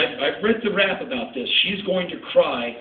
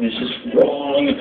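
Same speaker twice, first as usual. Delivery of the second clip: panicked; 9 semitones higher, slower than usual. Retold or imitated. Second, higher repeat.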